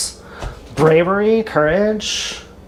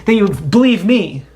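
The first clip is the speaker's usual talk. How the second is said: sarcastic hedging; faster than usual. Retold or imitated. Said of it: "Rather than saying".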